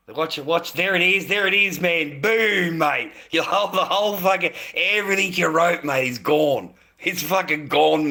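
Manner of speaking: loud, high-pitched, emphatic rant; heated gloating. Real, not acted. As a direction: crow at the troll in loud bursts. Gloating as troll's comments get deleted.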